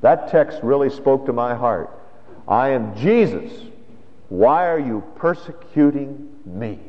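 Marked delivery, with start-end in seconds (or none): 2.5-6.8 tender voice of Jesus. Acted. Voicing Jesus, slow and tender.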